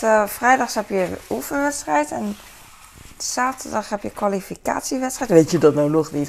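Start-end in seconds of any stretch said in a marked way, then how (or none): 5.3-6.3 imitating husband. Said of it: "hoor ik mijn man echt zeggen".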